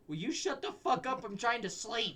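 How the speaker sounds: mock-grumpy friend trying to sleep; annoyed sleepy friend. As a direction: snap at the late-night talkers, mildly.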